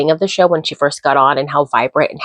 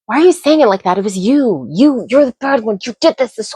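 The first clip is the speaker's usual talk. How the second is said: exasperated rant; 6 semitones higher than usual. Real, not acted. Vlogger scolding a lying islander, high exasperated. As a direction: scold him like he's right there. Ranting at Sincere on camera.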